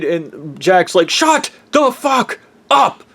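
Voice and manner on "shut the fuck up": much higher, shrieking put-on voice losing it; neurotic meltdown. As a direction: screech like a cornered control freak. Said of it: "freaking out and shit 'cause he's all neurotic".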